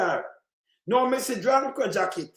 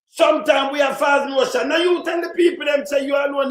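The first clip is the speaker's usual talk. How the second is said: loud, higher, heated retort; angry shout at the politician's claim; indignant shout; 4 semitones higher, 4 dB louder than usual. Real, not acted. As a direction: shout it back at him, outraged. Angrily throwing back the quote.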